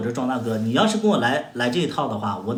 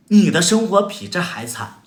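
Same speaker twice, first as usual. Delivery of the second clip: louder and higher, punching 你 at the start; emphatic repeat; 7 semitones higher, 7 dB louder than usual. Real, not acted. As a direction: hammer the point home on 你. Repeats line to stress it. (加重语气，重读“你”，更响更高)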